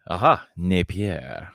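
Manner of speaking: Napier said slowly, French-ish. Shown as a demonstration. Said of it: "I can even say it French-ish".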